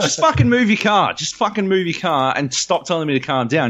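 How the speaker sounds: high, exasperated re-enacted yell; angry demand. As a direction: yell it while advancing on him. Acted angry demand while walking at him.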